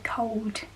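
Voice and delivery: "cold" with a W in place of the L; Black Country cold. Shown as a demonstration. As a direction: draw out "cold" as cowd. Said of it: "more Black Country".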